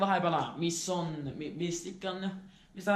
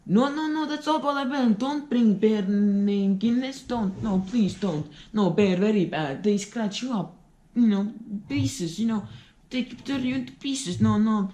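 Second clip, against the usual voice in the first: panicked foreign pleading. Acted. Foreigner begs in terror.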